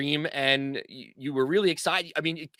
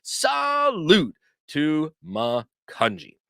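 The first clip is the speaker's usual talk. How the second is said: slow ceremonial salute; unhurried little ceremony; much slower than usual. Acted. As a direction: say it slowly like a toast. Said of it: "we all say a salute".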